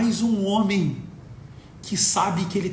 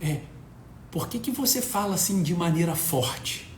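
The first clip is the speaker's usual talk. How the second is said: soft, small voice asking papa a question; a quiet three-year-old's question, lightly voiced; small daughter's voice; 8 dB quieter than usual. Three-year-old daughter asks papa, soft small voice. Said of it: "minha filha de três aninhos falou".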